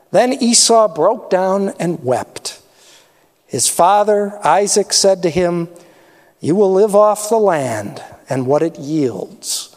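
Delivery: steady storytelling read of the Bible passage; scripture reading. Acted. Pastor reading scripture to the church, measured storyteller voice. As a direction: read the blessing out to the congregation.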